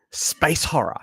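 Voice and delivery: whispered, voiceless announcement of the genre. Real, not acted. Streamer whispering the genre to chat while watching. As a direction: breathe it out like a spooky secret. Reacting to trailer title.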